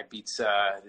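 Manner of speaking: Ibiza with a ts, "ee-BEET-sa"; Italian pronunciation. Shown as a demonstration. Guest compares nations for host, Italian Ibiza with ts. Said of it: "The Italians say".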